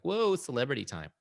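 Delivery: hushed, breathy mock awe; half-whispered, mock-starstruck gasp. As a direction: play-act being starstruck by a celebrity. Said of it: "we're all like".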